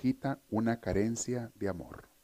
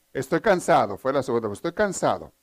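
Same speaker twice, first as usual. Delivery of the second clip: whiny excuse; 2 semitones higher, 5 dB louder than usual. Retold or imitated. Son's second excuse.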